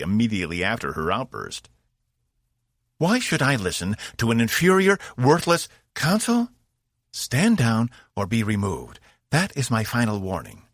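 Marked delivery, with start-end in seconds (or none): 3.0-10.6 angry alien warrior. A narrator's reading. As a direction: sneer and warn her down. Zenfor threatens the consul.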